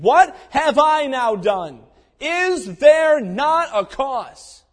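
indignant challenge. Acted. David challenging the cowards.

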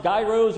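"gyros" said with a hard g, like "guy-rohs"; first guess at "gyros", opening like "guy"; pronunciation query. Retold or imitated. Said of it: "Is it pronounced".

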